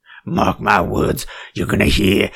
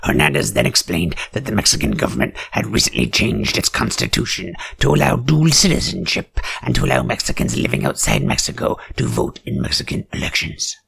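ordinary delivery

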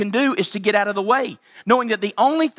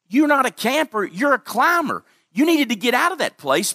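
rising emphatic declaration; 5 semitones higher than usual. Acted. Preacher declares to former church-goers.

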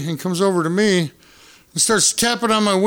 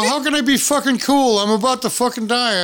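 laughing panic; 6 semitones higher than usual. Retold or imitated.

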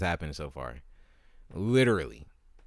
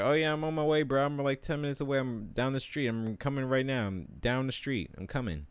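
mock eager friend voiced higher, fading to plain; flaky friend's promise; 5 semitones higher than usual. Friend still lying hours later.

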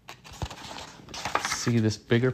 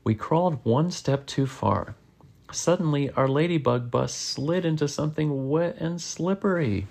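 lively read-aloud with swooping pitch; animated picture-book narration; story reading to children. A narrator's reading. Reading a bug adventure aloud to a child, animated storytelling.

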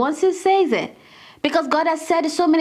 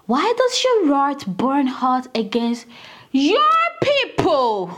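slow, pointed plea with a pause before "your"; mildly pleading challenge; slower than usual. Acted. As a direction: draw out the question, then set "your people" apart. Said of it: "Moses pleaded with the Lord".

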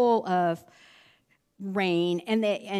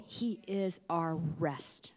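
slow, whispered reassurance; soft whisper; 4 semitones lower, 8 dB quieter, slower than usual. Acted. Comforting the congregation, slow whisper. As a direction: breathe it gently to them. Closing encouragement.

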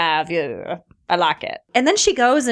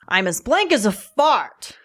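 slow deadpan line; slower than usual. Shown as a demonstration. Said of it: "I'm gonna say it like that".

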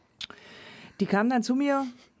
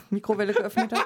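laughing. Real, not acted. Laughing while telling the story.

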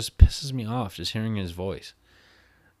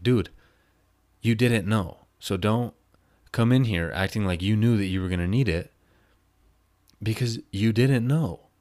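louder, hammered-out scolding, slowing on the last words; stern scolding; 3 semitones higher, 6 dB louder than usual. Retold or imitated. To Max about the gator, loud stern scolding. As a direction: put him in his place, louder.

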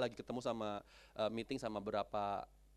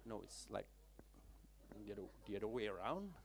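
low, very soft, halting CEO voice; hesitant correction; 3 semitones lower, 9 dB quieter than usual. Retold or imitated. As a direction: gently point out the mistake. (koreksi pelan dan ragu-ragu)

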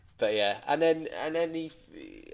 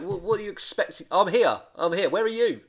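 impatient shout; 7 semitones higher, 5 dB louder than usual. Retold or imitated. Dad shouting on phone.

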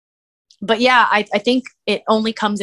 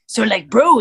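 bro voice demo; 5 dB louder than usual. Shown as a demonstration. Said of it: "kinda sounds like this".

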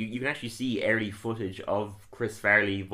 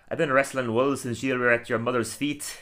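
a light Scottish brogue; lightly voiced Scottish braggart; Groundskeeper Willie. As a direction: boast in a mild Scottish groundskeeper voice. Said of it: "Today I'm gonna do Groundskeeper Willie".

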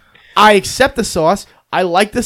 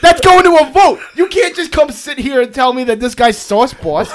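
higher, laughing mock outrage; 5 semitones higher than usual. Real, not acted. Host laughing while mocking the sauce boss claim. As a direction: rant while cracking up.

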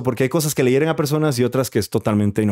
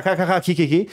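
imitated laughter; 5 semitones higher than usual. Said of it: "Y mi papá cagado de risa".

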